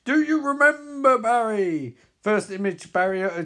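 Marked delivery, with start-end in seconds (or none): 0.1-2.0 higher, louder villain narrator; villain narrating the hero's past; villain narration. Acted. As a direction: ask it like a cruel reminder. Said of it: "narration by Reverse Flash".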